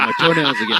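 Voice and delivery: high, fast, giddy; squeaky excited voice. Pretend. Mock excited filler talk.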